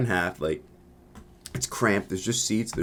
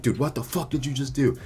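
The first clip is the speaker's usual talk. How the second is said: higher-pitched mock outrage; indignant confrontation; 6 semitones higher than usual. Security guard confronting a blood-spitting patient, indignant. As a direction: imitate an appalled guard challenging someone.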